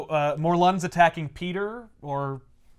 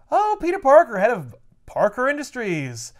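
lightly voiced old man, higher pitch; 5 semitones higher, 4 dB louder than usual. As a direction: greet him as a chatty old man, lightly acted. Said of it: "he's an old man".

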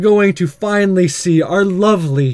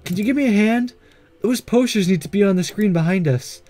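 Miss Rowan; 2 semitones higher than usual. Acted. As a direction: gently ask for a hand, pitched up.

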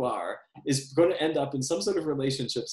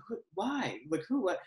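imitating confused sleep talk, soft and pitched up; lightly mumbled, higher questions of a sleeper; 6 semitones higher, 5 dB quieter than usual. Himself asleep answering voices on the tape, mock mumbled confusion. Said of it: "hear me clearly mumble talking".

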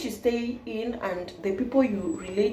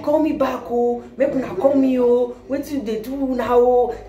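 Nigerian Pidgin; 3 semitones higher than usual. Retold or imitated.

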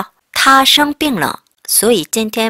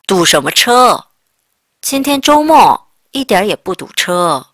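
scoffing retort; 5 dB louder, much slower than usual. Retold or imitated. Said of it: "그래서 내가 그럽니다".

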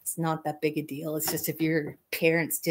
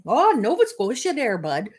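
thick Canadian accent; 5 semitones higher, 4 dB louder than usual. Shown as a demonstration. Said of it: "Sometimes my accent gets really heavy".

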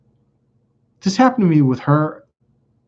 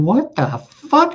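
high, drawn-out disbelief; incredulous; 12 semitones higher, much slower than usual. Retold or imitated. Accused of cheating by the cheater, high slow incredulity. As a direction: stretch out the shocked thought, pitched way up. Thinking after false accusation.

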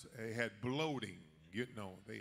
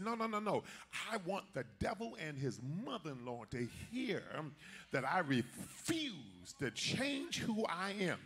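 defiant refusal; 4 semitones higher than usual. Acted. Acts Daniel's defiant refusal to whisper.

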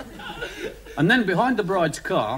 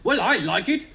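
higher, mildly hopeful voice; 5 semitones higher than usual. Acted. Florence sticking up for the story, hopeful. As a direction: offer it with a little hope.

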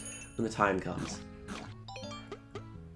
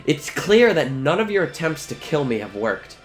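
slow theatrical villain menace. Acted. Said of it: "It's Edna".

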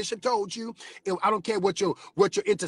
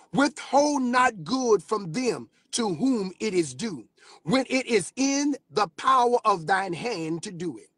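scripture reading; 3 semitones higher than usual. Acted.

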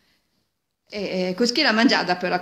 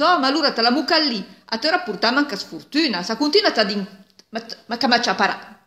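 angry scolding; 4 semitones higher, 4 dB louder than usual. Acted. Peasant scolds the cart.

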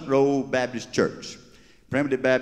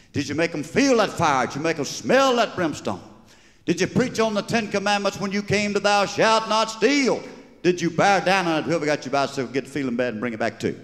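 higher, fervent preacher questions; 5 semitones higher than usual. Acted. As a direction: quiz him like a revival preacher. Preacher quizzing the Baptist preacher.

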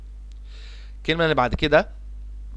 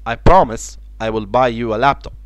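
slow model sentence; 2 semitones lower, much slower than usual. Shown as a demonstration. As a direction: read slowly for the class. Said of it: "كلمة promise معناها يوعد".

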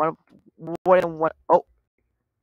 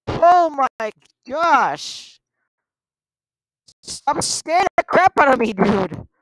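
stretched-out alarm; 4 semitones higher, much slower than usual. Real, not acted. Drawn-out reaction to scare.

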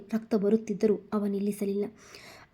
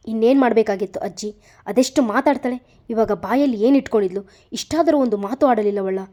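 loud, fast angry protest to his grandmother; 7 dB louder than usual. Acted. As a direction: vent your anger, still fuming. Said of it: "ಇನ್ನು ಕೋಪ ಕಡಿಮೆಯೇ ಆಗಿಲ್ಲ".

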